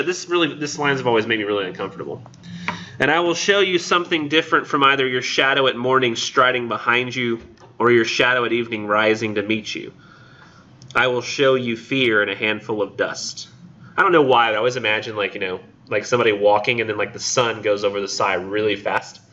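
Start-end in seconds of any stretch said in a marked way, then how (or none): 3.0-13.5 measured recital in long phrases; poem reading. Acted. Lecturer reading lines that unsettle her, poem reading. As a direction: read the verse out deliberately, close to your own voice.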